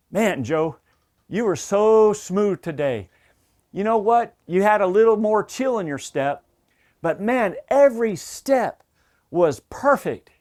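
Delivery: lightly acted, emphatic pat on the back; enthusiastic praise. Leader praising a teammate at the post-team huddle, enthusiastic. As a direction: stretch the key words, slowing into the finish.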